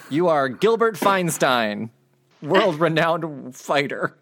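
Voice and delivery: slow, drawn-out proclamation; grand announcer voice. Acted. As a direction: announce it like a herald.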